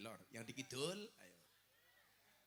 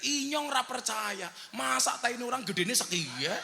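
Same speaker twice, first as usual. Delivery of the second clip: mock yell; 5 semitones higher than usual. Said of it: "Orang Ngapaknya langsung teriak".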